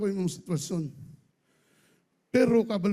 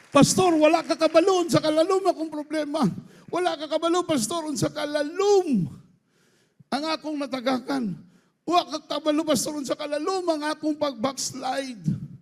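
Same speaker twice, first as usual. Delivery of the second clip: complaining churchgoer; 6 semitones higher than usual. Acted. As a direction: play a member telling the pastor he can't understand. Voices a troubled churchgoer.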